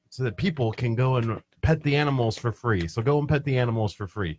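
subdued, mildly put-out tone; upset. Real, not acted. Explaining the extra video shoot to a co-host, quietly upset. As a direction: say it softly, a bit upset about it. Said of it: "You sound like you're really upset".

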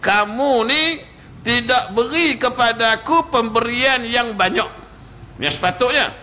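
preacher voicing an angry Bedouin's complaint; mild mock anger. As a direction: accuse him, half-acted. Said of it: "yang pertama dia marah".

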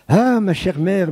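exclaimed. A narrator's reading. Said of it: "m'écriai-je".

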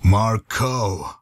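"Marco" split into MAR and CO; weary correction. Acted. Correcting the companion's Mario mistake, deliberate and weary. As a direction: sound out "Marco", both syllables drawn out. Correcting the misheard name again.

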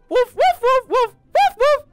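high yappy mock barks; barking dog. Imitating a dog.

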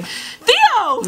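delighted high call; excited shout. Real, not acted. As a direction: squeal his name up high. Greets her crush excitedly.

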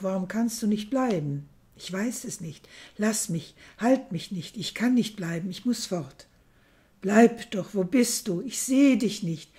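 reading a novel aloud, measured and hushed; gentle storyteller voice; story reading. A narrator's reading. Reads a novel excerpt aloud.

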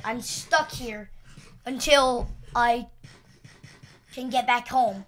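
slow, weighty lament; dramatic slow. Acted. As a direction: drag it out dramatically.

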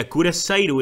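Curaçao in Portuguese style, said loudly; Curaçao as a Portuguese word for cuirassier; Portuguese pronunciation. Shown as a demonstration. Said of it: "the way we say it in Portuguese".

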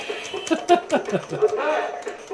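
high breathless burst of laughter; a high airy giggle; startled laugh. Real, not acted. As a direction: laugh it off in surprise.

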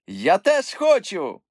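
put-on a keen young troll wanting a turn; eager cry. A narrator's reading. Moomin eager. (нетерплячий вигук)

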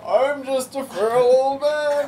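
put-on very old man. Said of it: "time to do what I always do".

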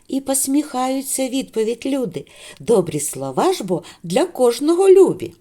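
sing-song recited greeting verse; teacher reciting a morning poem; poem recital. Acted. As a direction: recite the rhyme warmly to children.

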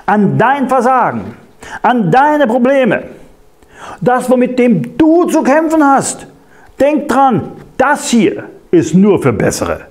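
leicht gespielte, verführerische Stimme des Feindes; Einflüsterung des Feindes. Acted. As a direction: den Zweifel einflüstern, höher angesetzt. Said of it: "Könnte beispielsweise so an, sich anhören". (Prediger spielt den Feind, der dem Gläubigen einredet: angedeutete höhere Verführerstimme)

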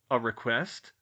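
plain pitch, questioning rise on request; puzzled echo. Acted. George echoes in disbelief.

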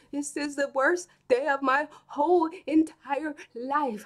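put-on whiny upset boy.

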